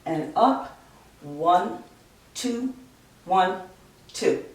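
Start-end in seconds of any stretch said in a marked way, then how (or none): 1.2-4.5 "one, two, one, two" counted out as separate beats; "one, two, one, two" with a small pause after each number; counting in two. Shown as a demonstration. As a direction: count a conductor's duple beat on "one, two, one, two". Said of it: "If we go down and up".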